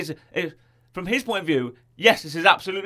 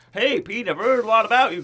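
brainwashed cheer; 6 semitones higher, 3 dB louder than usual. Retold or imitated. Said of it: "But Kevin Bacon's like".

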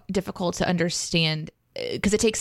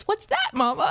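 put-on child's voice; 9 semitones higher than usual. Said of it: "And she goes".

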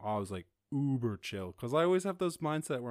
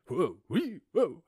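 mock whoa; 6 semitones higher, 6 dB louder, slower than usual. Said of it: "that feeling in your stomach where you're like".

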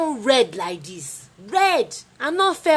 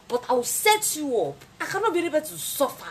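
laughing; 9 semitones higher than usual. Real, not acted.

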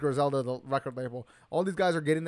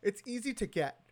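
talking through a yawn; words stretched by a yawn; 6 semitones higher, 4 dB quieter than usual. Real, not acted. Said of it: "Sorry, I'm yawning".

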